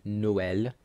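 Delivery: Noël said "no-EL" in two syllables; French Noël with open "eh"; separated vowels. Shown as a demonstration. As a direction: keep o and ë apart in Noël. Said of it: "it's a separate pronunciation".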